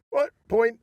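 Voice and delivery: high, loud incredulous What? Point?; retold disbelief. Retelling a shield wrestling bout, mock indignant yelp. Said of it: "it was like".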